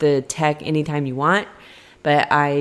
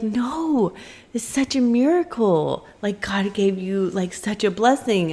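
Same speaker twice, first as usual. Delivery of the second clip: gushing staff voice; 4 semitones higher than usual. Retold or imitated. Mimicking staff again.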